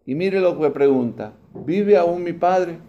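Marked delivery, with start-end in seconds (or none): 1.5-2.8 very slow, each word drawn out; a longing son's slow question about his father; slow earnest question. Acted. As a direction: ask it slowly, almost pleading. Joseph asks after his father.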